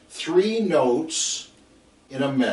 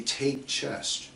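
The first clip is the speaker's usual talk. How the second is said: coach cue; 6 dB quieter than usual. Retold or imitated. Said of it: "I hear your voice say".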